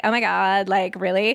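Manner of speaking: lightly voiced Valley Girl accent. Teen auditioning as Vanessa, Valley Girl accent. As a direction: put on a hint of Valley Girl. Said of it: "I wanna do a Valley Girl".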